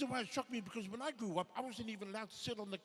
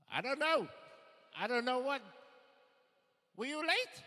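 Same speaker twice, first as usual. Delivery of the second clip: clueless dad; 4 semitones higher, 7 dB louder than usual. Acted. Dad dodging the question.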